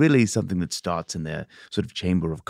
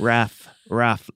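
playful dog bark. Pretend. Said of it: "they do bark in accent".

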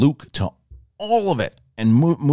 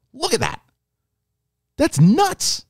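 amazed; slower than usual. Real, not acted. Fan reacting to the deepfake, high and amazed. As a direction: blurt it out in awe.

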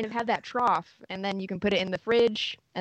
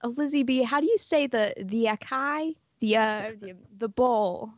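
impression of mom; 3 semitones higher than usual. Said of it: "Donna always, always asking how to say acai".

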